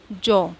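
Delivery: जॉ said with a long aw sound; model word demo. Shown as a demonstration. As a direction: stretch the aw in जॉ for the class. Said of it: "जॉ कैसे बनेगा". (जॉ को लंबे ऑ के साथ साफ़ बोलना)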